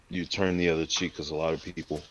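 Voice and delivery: talking while eating; words round a bite of food; mouth full. Real, not acted. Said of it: "I'm sorry if you hear me eating".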